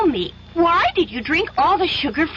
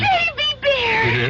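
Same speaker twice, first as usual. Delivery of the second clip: high, slow delighted cry of recognition; light up as you recognise him; surprised recognition; 6 semitones higher, slower than usual. Acted. Goldilocks recognises the bear from the cottage, delighted surprise. Recognises old friend after gasp.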